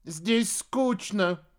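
drawn-out, very slow bored whine; bored witch. A narrator's reading. Witch sulks at her companion, drawn-out and bored. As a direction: stretch it out, sulking.

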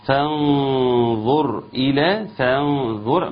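فانظر with a light فا then a heavy ظ; tajweed pronunciation demo. Shown as a demonstration. Teacher drilling فانظر for the student, slow and careful. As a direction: separate thin فا from heavy ظ in فانظر. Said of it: "خلص المرقق من المفخم".

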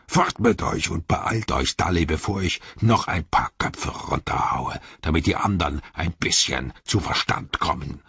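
lightly voiced orc threat; a touch of a brutish commander; bullying orc leader. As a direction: menace them into obeying.

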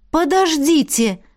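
high, slow call to stop; exclaimed. Acted. Heroine stops the council from concluding, high and slow. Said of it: "воскликнула я".

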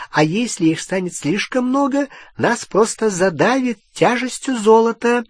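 high, tense goblin warning. A narrator's reading. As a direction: warn them in a high goblin voice. (высокий напряжённый голос гоблина)

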